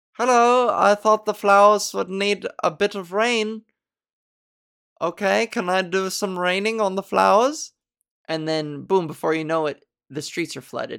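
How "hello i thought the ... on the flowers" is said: put-on sweetly overpolite small European boy, high and loud. Picturing a storm named Hans as a boy, the speaker voices him: polite little boy voice. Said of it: "small, rotund European boy who's just so polite".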